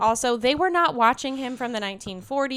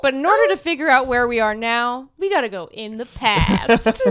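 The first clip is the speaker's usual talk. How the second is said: a light movie-trailer voice, louder; mock movie narrator; 3 semitones higher, 8 dB louder than usual. Spoofing the film's opening voiceover with a dramatic read. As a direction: play the dramatic voiceover, half-laughing. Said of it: "it's like record scratch".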